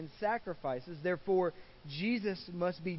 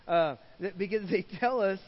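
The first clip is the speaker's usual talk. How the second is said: recovering from a choke; strained after a cough; choking; 2 semitones higher, 5 dB louder than usual. Real, not acted. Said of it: "I'm choking to death here".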